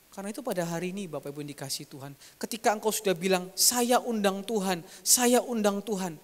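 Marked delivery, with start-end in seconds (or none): 3.5-6.2 slow, deliberate invitation; slow earnest. Shown as a demonstration. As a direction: say it slowly, meaning every word. Preacher models heartfelt invitation. (pelan dan sungguh-sungguh)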